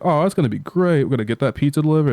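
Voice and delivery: high, fast and eager; eager SpongeBob. Retold or imitated. Vlogger retelling SpongeBob thrilled about the delivery, high and fast. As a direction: gush it out quickly, all excited.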